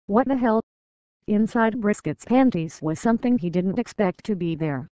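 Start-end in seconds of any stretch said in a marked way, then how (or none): 0.1-0.6 startled, higher and louder; surprised. A narrator's reading. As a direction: blurt it out in shock. Shock at discovery.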